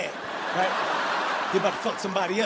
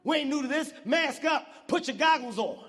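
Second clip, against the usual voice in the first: higher-pitched rallying call, lightly acted; protester leading the way; 4 semitones higher than usual. Lead marcher instructing the crowd, lightly imitated rallying call. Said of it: "The black guy in the front goes".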